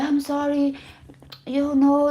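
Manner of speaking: mimicked high-pitched apology; apologetic plea. Woman apologizing to an aggressive man on video call, mimicked apologetic plea. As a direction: imitate someone meekly saying sorry. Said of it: "you can tell that she's apologizing".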